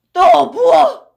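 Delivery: high, loud snapped order. Acted. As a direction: bark it at the pourer. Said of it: "라고 외쳤다".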